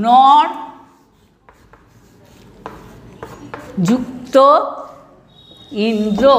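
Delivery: each word set apart by long pauses; slow dictation. Shown as a demonstration. Teacher dictating an example to the class, slow and spaced. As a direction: dictate word by word so pupils can write. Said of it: "যেমন".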